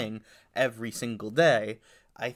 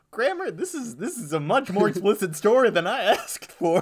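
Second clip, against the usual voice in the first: put-on child voice; 7 semitones higher, 5 dB louder than usual. Grandchild scolds grandma.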